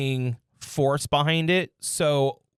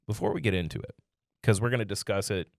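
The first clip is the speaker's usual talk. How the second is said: deep seductive hush; sultry voice; 8 semitones lower than usual. Pretend. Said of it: "He went into his sultry voice".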